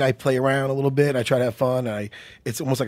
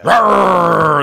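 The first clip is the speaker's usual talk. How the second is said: Megatron roar; 2 semitones higher, 9 dB louder than usual. Retold or imitated. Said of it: "That's what he sounds like".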